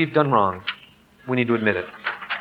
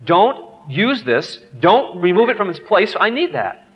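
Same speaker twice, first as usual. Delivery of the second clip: ticked-off father; 3 semitones higher, slower than usual. Retold or imitated. Dad ordering son off his shoe sponge, mildly ticked. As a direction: lay down the rule with put-on irritation. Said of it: "I was just always ticked".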